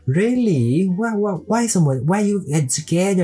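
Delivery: high rising disbelief, slowed; surprised driver. Retold or imitated. Driver amazed that a Malaysian came with Taiwanese friends, high and surprised. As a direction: act out the driver's astonishment. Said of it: "他说".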